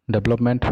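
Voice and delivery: Development squeezed to "deb-lop-ment"; wrong pronunciation. Shown as a demonstration. Teacher quizzing students with a faulty form, wrong pronunciation. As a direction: say Development with a b and no middle vowel. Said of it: "both are incorrect".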